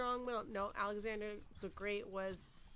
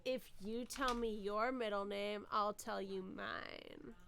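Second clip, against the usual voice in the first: sexy voice; slower than usual. Acted. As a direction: read it like a slow come-on. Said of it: "like, in a sexy voice?".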